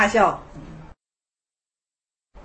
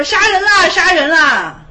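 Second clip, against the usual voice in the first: high, loud alarmed yell; crying murder; 6 semitones higher, 6 dB louder, slower than usual. Retold or imitated. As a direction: scream for help as if attacked. Monk cries murder in retelling. (惊慌大喊“杀人啦”)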